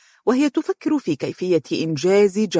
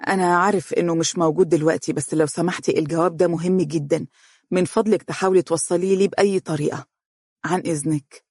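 quickly. Acted. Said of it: "قال بسرعة".

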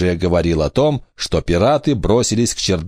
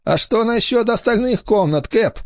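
high trembling pirate; shaky pirate voice; 14 semitones higher than usual. Acted. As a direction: ask nervously, voice wavering. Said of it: "спросил пират с дрожащим голосом".

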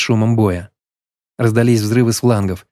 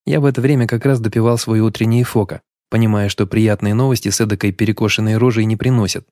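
ordinary delivery, nothing marked

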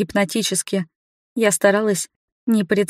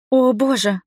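slightly raised, choked-back gasp; strangled exhale; 3 semitones higher than usual. A narrator's reading. Heroine recoiling in the dark cellar, mildly strangled exclamation. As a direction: breathe it out with a touch of dismay. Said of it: "сдавленно выдохнула я".

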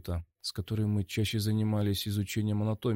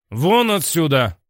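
angry shout; 7 semitones higher, 9 dB louder, slower than usual. Acted. Director throws hero out.

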